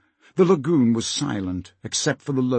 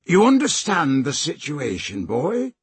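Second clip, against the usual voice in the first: restrained villain's call; shout; 3 semitones higher than usual. Acted. Slank checks Peter grasps the threat, understated shout. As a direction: call across with mild menace, lifting at the end. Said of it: "Slank shouted".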